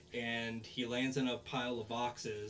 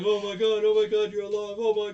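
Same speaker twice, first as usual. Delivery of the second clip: much higher and louder, frantic; terrified shriek; 11 semitones higher, 16 dB louder than usual. Retold or imitated. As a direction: scream it, scared out of his wits. Onizuka scared by fake zombie.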